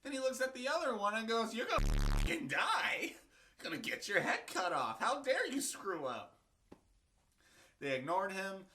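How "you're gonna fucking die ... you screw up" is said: mock threat. Pharaoh threatens the baker.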